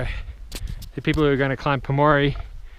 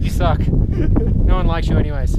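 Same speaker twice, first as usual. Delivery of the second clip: mock rant; 4 semitones higher, 8 dB louder, slower than usual. Joking rant at YouTube.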